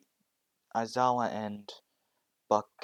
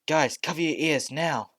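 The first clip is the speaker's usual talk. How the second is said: loud urgent shout, pitched up; 7 semitones higher, 7 dB louder than usual. Acted. Midoriya warning his friends to cover ears, loud shout. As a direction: yell a warning to the group. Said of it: "shouts out and says".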